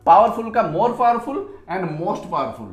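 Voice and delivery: slow, each form spaced out; patient dictation pace; slow teacher dictation. Shown as a demonstration. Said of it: "इसमें क्या करेंगे हम".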